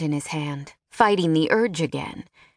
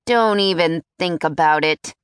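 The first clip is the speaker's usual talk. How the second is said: firm warning, a bit louder; threatening; 4 dB louder than usual. Acted. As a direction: warn the creature off, mildly menacing. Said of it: "the wizard threatened".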